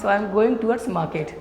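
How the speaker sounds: each word spaced out slowly for students to note; slow classroom dictation of an English sentence. Shown as a demonstration. Teacher dictating example sentence.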